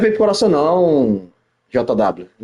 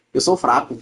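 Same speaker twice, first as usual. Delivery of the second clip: lower, deadpan mock admission; mock resignation; 5 semitones lower, 3 dB quieter than usual. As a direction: concede it drily, pitched down. Repeats the insult back, resigned. (admissão irônica, em tom mais grave)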